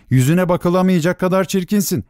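high-pitched, indignant insult; scornful rejection. A narrator's reading. Star child refuses his mother a kiss, scornful. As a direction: spurn with open disdain.

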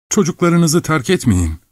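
high-pitched entreaty; pleading. A narrator's reading. Young man begs the old man to stay, pleading. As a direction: implore him, voice lifted high.

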